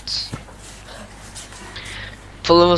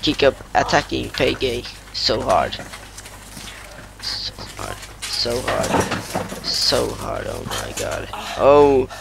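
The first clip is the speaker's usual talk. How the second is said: wrestling commentator. Pretend. Kid calls the match live.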